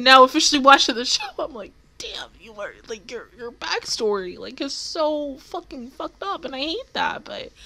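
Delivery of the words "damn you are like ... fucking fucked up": whispered aside. Retold or imitated. Stunned remark to the character.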